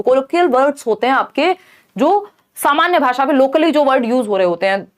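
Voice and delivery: ordinary talk, nothing marked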